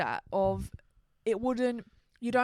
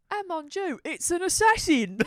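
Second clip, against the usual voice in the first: higher, slow hammed-up French gasp; French accent; 7 semitones higher, 5 dB louder than usual. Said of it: "go like".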